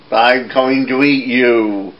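a hint of a menacing troll, slow; slow troll threat. Troll threatens the little goat, slow menace. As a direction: drag out the threat slowly.

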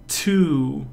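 "Two." said with a wide mouthed T; demo word. Shown as a demonstration. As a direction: show the T shape clearly. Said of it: "See that?".

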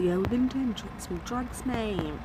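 slow and lightly mocking high voice; mock high stoned friend. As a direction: mimic a friend who's been drinking. Friend's drugged confession voiced.

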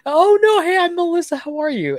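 very high, put-on chirp after a laugh; Melissa. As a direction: play the caller jumping high into English. Acts out Melissa switching to English.

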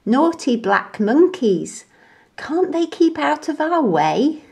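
indignant little monkey; cross monkey. A narrator's reading. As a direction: grumble at the nuisances. Annoyed monkey.

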